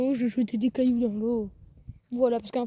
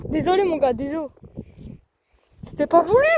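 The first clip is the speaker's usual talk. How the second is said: excited; 3 semitones higher, 4 dB louder than usual. Real, not acted. Apologising to the fish.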